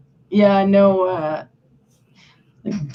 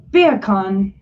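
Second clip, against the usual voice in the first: Jamaican accent; 3 semitones lower than usual. Shown as a demonstration. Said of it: "sounds like you're saying bacon with a Jamaican accent".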